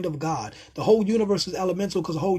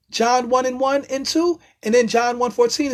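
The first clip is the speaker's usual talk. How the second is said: fired-up citing; 5 semitones higher, 4 dB louder than usual. Real, not acted. Citing scripture to viewers, still excited. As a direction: call out the verse with fire.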